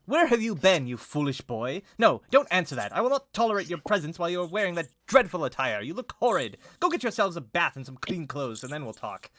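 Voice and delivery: high, loud, imperious berating; shouting scolding. Acted. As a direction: berate your son like a haughty mother.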